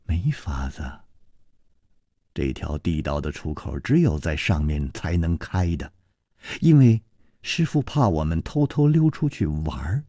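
lightly voiced reserved disciple; soft, restrained answer, lifting a little at the end; Nanping. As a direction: explain it quietly, lightly in character.

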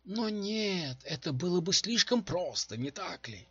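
high, mocking bitterness; bitter sarcasm. A narrator's reading. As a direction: scoff bitterly at the easy option. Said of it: "с горечью произнесла та".

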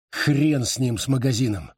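usual speaking voice

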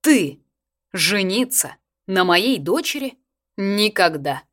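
loud, slow stern father; stern refusal. A narrator's reading. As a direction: cut him off like an angry colonel. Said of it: "отрезал папа".

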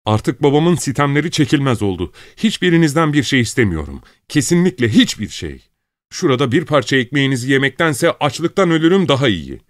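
high, piercing yell; shrill shouting. A narrator's reading. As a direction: scream at full voice. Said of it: "tiz sesiyle avazı çıktığı kadar bağırarak".

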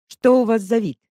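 investigator, baffled by her disguise, asking; incredulous. A narrator's reading. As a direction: ask about the odd look in disbelief.

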